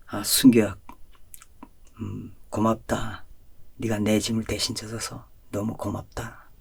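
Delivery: slow, soft whisper; gentle whispered blessing; hushed divine voice. Retold or imitated. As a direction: whisper it like a voice heard in a dream. Voice of the Lord speaking.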